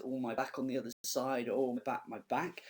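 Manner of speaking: lightly acted moaning about aches; a hint of mock suffering; complaining Nurse. Teacher quoting the Nurse moaning to Juliet, mock complaining. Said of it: "it's complaining about how her back aches".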